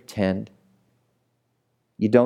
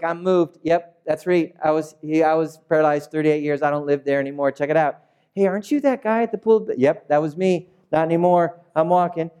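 cheerful healed man; 5 semitones higher than usual. Acted. Healed man bragging to passersby.

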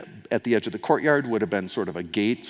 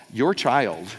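pointed your; 3 dB louder than usual. Retold or imitated. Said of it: "you say to your spouse".

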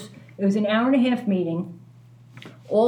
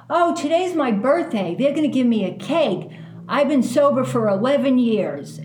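cheery neighbor; 4 semitones higher, 4 dB louder than usual. Retold or imitated. Neighbor's cheerful birthday quote.

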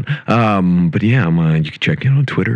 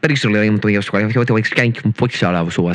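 fake foreign language; 4 semitones higher than usual. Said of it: "best fake language you can make up".

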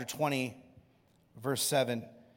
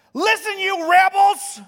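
high, loud, slow bellow at the crowd; shouted rebuke; 14 dB louder than usual. Retold or imitated. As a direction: yell it down at the rebels. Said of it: "he shouted".

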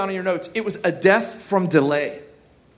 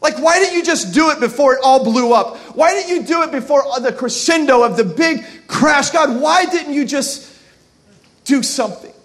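frustrated believer; 4 semitones higher, 5 dB louder than usual. Retold or imitated.

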